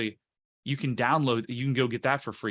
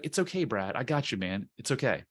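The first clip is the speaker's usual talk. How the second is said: reassuring self-talk. Retold or imitated. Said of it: "I'm like".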